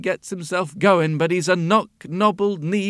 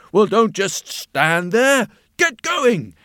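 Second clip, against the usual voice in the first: louder, higher impatient command; stern order; 4 semitones higher, 5 dB louder, slower than usual. A narrator's reading. Master barking at the lazy donkey, louder and impatient. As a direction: drive the donkey off sharply.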